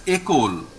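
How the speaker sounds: école as "ay-KOL"; French pronunciation. Shown as a demonstration. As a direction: open école with a closed é sound. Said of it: "we pronounce this word as".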